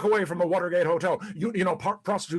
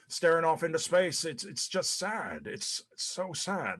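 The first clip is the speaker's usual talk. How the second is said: imitating wife sadly; 5 dB quieter than usual. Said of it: "and you said".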